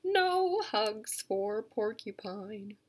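slow, drawn-out title; slow title read. Shown as a demonstration. Educator reading a book title to kids, slowly. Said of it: "It's called".

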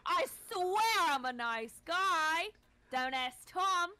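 put-on high loud Cockney accent; pleading Cockney charmer. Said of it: "the Cockney accent".

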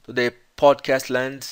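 very slowly, word by word; slow imitation of the podcaster. Teacher to students, repeating the host's greeting slowly. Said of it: "Ele falou".

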